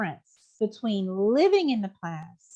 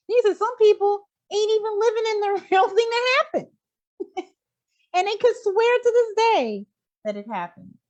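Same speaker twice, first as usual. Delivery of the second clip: higher and louder, laughing through the words; laughing amazement; 9 semitones higher, 5 dB louder than usual. Real, not acted. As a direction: push it up with delighted disbelief. Laughing retelling of a mind-blowing idea.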